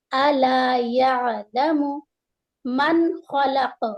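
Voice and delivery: slow, measured tajweed chant; slow recitation. Shown as a demonstration. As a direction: recite slowly, every letter clear. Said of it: "reciting the verse slowly".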